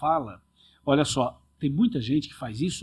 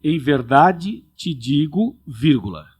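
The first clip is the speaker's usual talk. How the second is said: slow, with a pause after "digo"; 4 dB louder, much slower than usual. Shown as a demonstration. Pastor demonstrating the comma placed after "digo". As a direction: read "Em verdade te digo" slowly and stop after "digo". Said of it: "Se você ler a resposta de Cristo da seguinte maneira".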